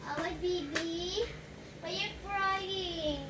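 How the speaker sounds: put-on soft, slow, soothing a crying baby; tender comforting. Mother soothing her crying baby, soft and slow. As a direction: coo to the baby gently and slowly.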